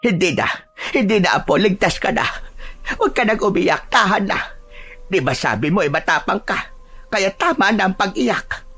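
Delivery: high-pitched, urgent reassurance; soothing grandmother. Acted. Grandmother telling her grandchild to stop crying, soothing. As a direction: hush a frightened child in short phrases.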